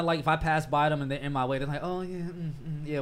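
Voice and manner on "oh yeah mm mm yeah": bored, brushing-off mumble; dismissive. Retold or imitated. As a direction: wave it off, uninterested. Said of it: "very dismissive".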